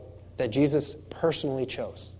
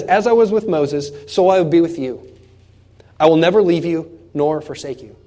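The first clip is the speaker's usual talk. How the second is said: loud preached promise; 6 dB louder than usual. Acted. Pastor voicing God to Joshua, loud and bold. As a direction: voice God's promise boldly, raised.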